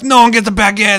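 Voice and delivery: loud, high mock French cry, laughing; mock French accent. Ubisoft's boss denying everyone the baguette, laughing mock French accent. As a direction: declare it in a hammed-up French accent, cracking up. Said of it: "With my perfect accent".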